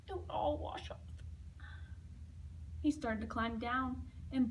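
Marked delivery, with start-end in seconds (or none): 0.1-1.0 whispered. Acted. Painter's answer, whispered.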